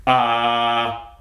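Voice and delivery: "ah" held long on one level tone; drill vowel demo. Shown as a demonstration. Coach puts the drill sounds together, steady held "ah". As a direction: sustain "ah" steadily at speaking pitch. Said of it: "it's gonna go".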